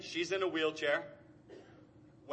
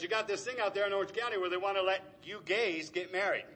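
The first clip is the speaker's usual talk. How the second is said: mock KKK dad; 5 semitones higher, 4 dB louder than usual. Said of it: "Talks like a Jerry Springer audience member".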